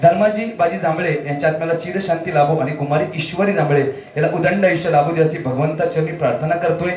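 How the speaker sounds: loud formal stage announcement; announcer style. Acted. Compere announcing a memorial prize, formal loud announcement. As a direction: read the dedication like a compere.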